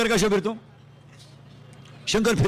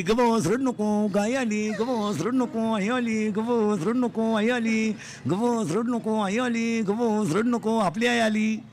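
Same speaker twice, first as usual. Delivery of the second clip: put-on hushing a child; much slower than usual. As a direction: soothe the baby gently. Mother soothing child.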